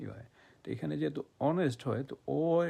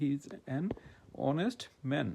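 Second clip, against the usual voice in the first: slow example sentence; much slower than usual. Shown as a demonstration. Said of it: "এই যে অনেস্টের কথা বলছিলাম".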